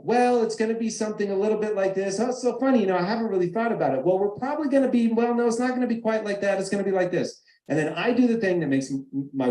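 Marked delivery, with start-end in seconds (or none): 0.0-7.4 higher, hesitant rambling dodge; waffling evasively. Retold or imitated. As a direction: play someone stalling for an answer. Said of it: "They're gonna waffle".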